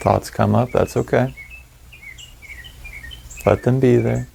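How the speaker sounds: calm, measured meditation voice with long pauses; guided meditation. Acted. Meditation guide settling listeners into their breath, calm guided meditation. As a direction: ease them through each breath and let silence sit between phrases.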